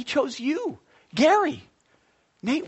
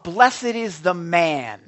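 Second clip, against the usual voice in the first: verse proclaimed loud and drawn out; loud proclamation; 3 semitones lower, 8 dB louder, slower than usual. Real, not acted. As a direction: announce the scripture at full preaching volume. Proclaims verse, then repeats it slower.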